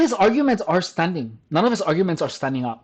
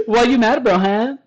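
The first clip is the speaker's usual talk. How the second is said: mocking taunt; 5 semitones higher than usual. Taunting the mad commenter.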